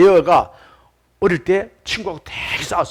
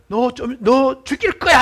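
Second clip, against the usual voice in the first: high, drawn-out imitated echo; echo coming back; 6 semitones higher, slower than usual. Hills return the boy's curse, imitated echo. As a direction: call it back like the hills answering. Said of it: "하고 다시 울려오는 거예요".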